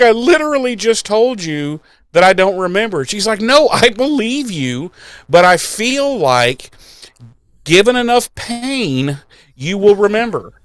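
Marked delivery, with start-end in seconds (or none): 0.0-3.0 higher-pitched exasperated retort; exasperated protest. Retold or imitated. Acting exasperated captive in retold scene. 3.4-10.5 measured threat. Retold or imitated. Acting interrogator threatening captive.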